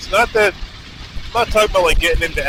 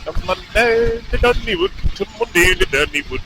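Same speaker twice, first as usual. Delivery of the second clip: attempted Irish that comes out more Scottish; Irish accent turned Scottish; 3 semitones higher than usual. Rider having another go at Irish, lands on a Scottish accent. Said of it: "It's, like, more Scottish".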